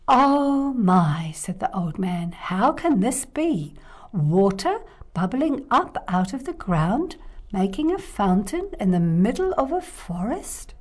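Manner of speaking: lightly voiced old man in wonder; a hint of an old man gasping in awe; amazed old man.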